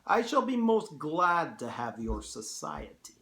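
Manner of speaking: put-on Russian-accented courteous host; formal welcome in a Russian accent; General Zaroff. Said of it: "hard to do a Russian accent".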